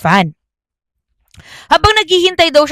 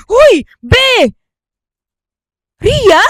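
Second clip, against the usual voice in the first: startled cry; 12 semitones higher, 5 dB louder, much slower than usual. Acted. Startled girl calls out.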